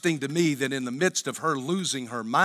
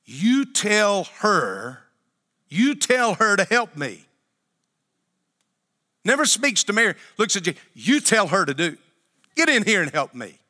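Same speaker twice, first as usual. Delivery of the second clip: bossy demand; 3 semitones higher than usual. Retold or imitated. Martha ordering Jesus.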